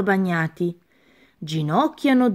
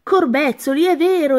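higher, louder, startled snake; startled exclamation; 6 semitones higher, 3 dB louder than usual. Acted. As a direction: yelp it in sudden shock. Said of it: "esclamò la biscia".

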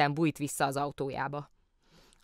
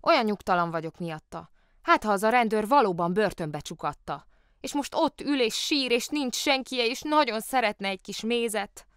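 put-on fretful child's complaint, rising high in pitch; worried complaint; 6 semitones higher, 4 dB louder than usual. A narrator's reading. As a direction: lament to grandmother with growing worry. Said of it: "panaszkodott Lotta a nagymamájának".

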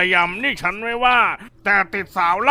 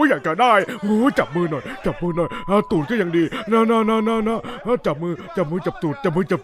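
giggly coaxing; 3 semitones lower, 4 dB quieter than usual. Acted. Gang member coaxing the newcomer.

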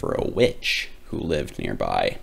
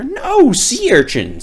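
high, louder contradicting doctor; squeaky rival doctor; another doctor; 7 dB louder than usual. Acted. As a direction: cut in to correct the first doctor. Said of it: "said another".

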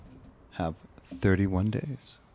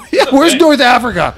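laughing; 12 semitones higher, 6 dB louder than usual. Real, not acted. Laughing at a wrong answer.

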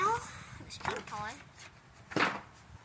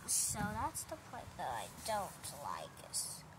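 whispered; 5 dB quieter than usual. Real, not acted. Kid showing toy car whispering.

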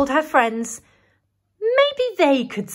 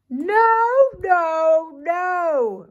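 mild mock roar; 6 semitones higher, 3 dB louder, much slower than usual. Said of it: "roared Gary".

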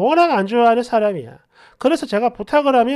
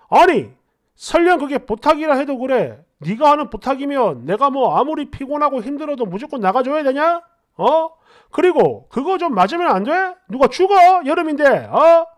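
scolding, somewhat raised voice; mild angry yelling. Acted. Boyfriend arguing over getting wet in summer, scolding. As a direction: fire off indignant rhetorical questions. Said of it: "이러면서 고함을 버럭버럭 질러요".

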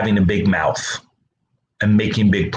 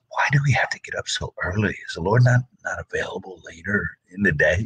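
whiny complaint; 4 dB quieter than usual. Retold or imitated. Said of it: "it's like".

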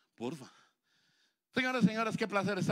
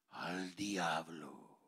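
dramatic punchline; 10 semitones lower, 6 dB quieter, much slower than usual. Acted. Punchline after a long pause.

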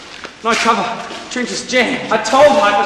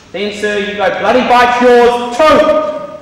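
slow defiant insult; 5 dB louder than usual. Acted. Telling off a superior by phone.

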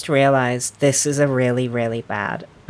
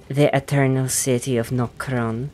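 imitated Welsh lilt, rising at the end; Ranni. Gamer recalling how Ranni says it, Welsh accent. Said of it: "how does Ranni say it again?".

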